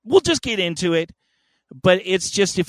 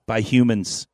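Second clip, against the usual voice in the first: dramatic storyteller voice; 3 semitones higher, 4 dB louder than usual. Acted. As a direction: tell it like an old legend. Grand segment narration.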